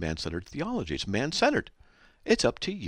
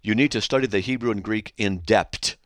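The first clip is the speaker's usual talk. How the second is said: mock stern reading; 2 semitones higher, 7 dB louder than usual. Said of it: "He says".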